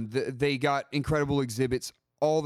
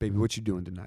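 very deep, low, seductive voice; 5 semitones lower than usual. Demonstrating how to send her a voice text: deep soul singer voice. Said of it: "let me get down in my Barry White voice. This is as low as I can go".

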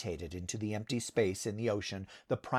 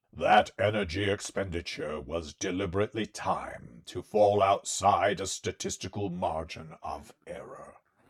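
cold, deteriorating machine voice, raised; 5 dB louder than usual. Narrating the primary's reply after an assault on its hull, cold, deteriorating voice. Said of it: "in its cold, deteriorating voice".

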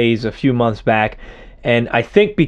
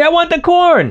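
put-on acted very high, screaming little kid voice; 3 dB louder than usual. Retelling her reaction when the speaker takes the food away, retelling a scream. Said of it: "she starts screaming".

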